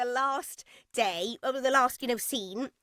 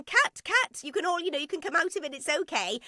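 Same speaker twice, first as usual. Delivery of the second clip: director shouting cut; 6 semitones higher than usual. Retold or imitated. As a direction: call cut across the set, then soften. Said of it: "as soon as she shouted".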